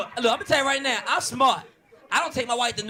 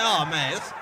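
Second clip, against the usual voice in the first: mock exasperation; 3 semitones higher, slower than usual. Cop reacting to the parrot, squealing exasperation. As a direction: squeal it in disbelief.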